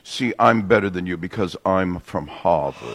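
mock elitist Harvard snob in a Boston accent; snooty Yankee accent. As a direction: look down your nose, dropping the r's. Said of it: "that Yankee accent".

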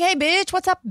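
high-pitched chummy dad greeting; imitating friend's dad. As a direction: mimic an over-familiar homeboy dad. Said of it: "It was just like".

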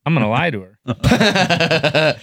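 slow, laughing deadpan line; deadpan joke laughing. Retold or imitated. Man retells answering the nurse about kids, slow laughing deadpan. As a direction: drag it out grinning through the punchline. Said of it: "and I said".

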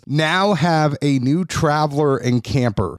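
brisk, upbeat sponsor read. Acted. Podcast host reading sponsor ads in a bright ad voice. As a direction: sell it like a podcast ad spot.

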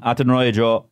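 phone-in caller. Retold or imitated. Caller answers radio host.

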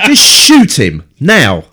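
slow, loud order; commanding. Real, not acted. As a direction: bark it as an order. Urging on-screen robot dog.

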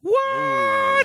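high, loud shocked yelp; stunned at the news; shocked what. Real, not acted. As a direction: blurt it out in disbelief. Shocked at Georgia reveal.

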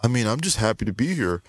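lightly voiced eager newcomer, a bit breathless; starstruck young boxer. Imitating Deji at the press conference, eager and starstruck. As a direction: play the awed rookie meeting his idol. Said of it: "Did he sound like that?".

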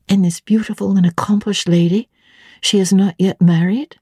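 curious governess pressing for details; young Jane. Acted. Jane asks.

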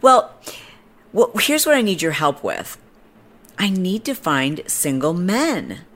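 lightly voiced insistent stranger; imitating the woman. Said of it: "And she's like".

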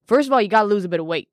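rattled off fast; fast, blunt mock advice; brisk blunt verdict. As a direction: blurt the verdict quickly. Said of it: "I take a look at her and I say".

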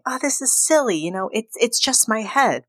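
dazed brush-off. Retold or imitated. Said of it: "she just keeps saying".

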